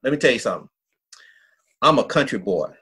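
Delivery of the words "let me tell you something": confiding whisper. Real, not acted. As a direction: drop to a secretive whisper. Repeats lead-in as a whisper.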